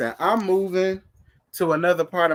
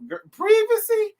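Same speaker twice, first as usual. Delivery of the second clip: privacy shot up much higher in mock disbelief; 4 dB louder than usual. Real, not acted. Host mocks the guest's word privacy, squealing in disbelief. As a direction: squeal the word like you can't believe it.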